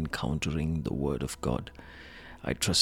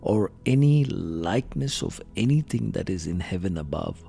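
raised, emphatic Bible reading; scripture reading; 4 semitones higher, 4 dB louder than usual. Real, not acted. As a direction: declaim the commandment from the page. Reads scripture aloud.

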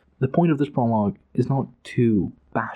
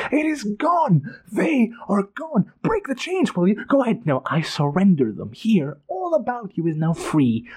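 high, slow, broken king's wail; shrieking despair; 8 semitones higher than usual. A narrator's reading. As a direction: cry out that it is all gone. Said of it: "Calor shrieked".

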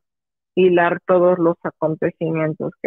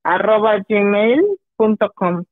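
deletreando; 2 semitones higher than usual. Shown as a demonstration. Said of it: "A ver, deletréalo".

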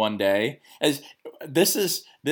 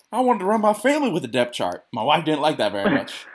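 high, louder imitation of an old Midwestern coach; old coach's Midwestern accent; 5 semitones higher, 3 dB louder than usual. Coach quipping about his wife, high Midwestern accent. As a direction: play the folksy Midwestern coach cracking a joke. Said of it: "hard Midwestern accent".

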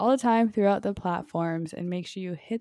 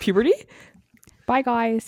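high mock voice crack; 6 semitones higher, 7 dB louder than usual. Mocking voice crack.

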